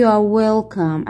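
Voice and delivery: drawn-out question for the class; slow it down word by word; very slow model reading. Shown as a demonstration. Teacher as flight attendant, slow model question. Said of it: "واحد بيكون هو المضيف للطيران".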